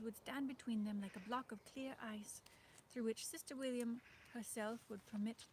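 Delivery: put-on reading a novel aloud in an old-fashioned Dutch-tinged English accent; lightly put-on old-fashioned Dutch-flavoured accent, steady storyteller pace. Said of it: "when you speak with this accent".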